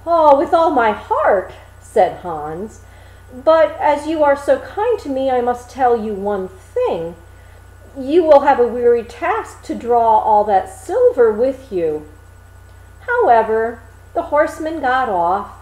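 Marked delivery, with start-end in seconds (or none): 0.1-12.1 a simple lad grumbling about his burden; mock woeful complaint; Hans complaining. Hans answers horseman.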